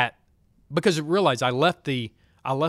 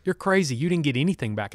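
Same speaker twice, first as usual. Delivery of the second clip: mock-supportive friend; 3 semitones higher, 3 dB louder than usual. Doctor friend dismissing patient's regained height, bluntly. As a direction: teasingly shoot the claim down. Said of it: "as that supportive friend he is".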